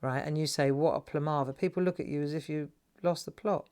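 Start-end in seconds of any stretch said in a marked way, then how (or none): 0.7-1.5 lower, own southern London accent; everyday southern London delivery; southern London twang. Shown as a demonstration. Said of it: "southern London twang".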